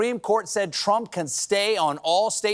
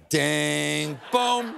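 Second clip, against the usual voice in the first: sound effect; 3 semitones lower than usual. Shown as a demonstration. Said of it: "Oh, I know that one".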